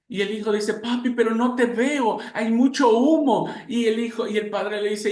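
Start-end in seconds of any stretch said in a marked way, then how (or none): 0.7-3.5 put-on higher, frightened small boy; a child lost in smoke, afraid; trapped boy answering his father through thick smoke, scared.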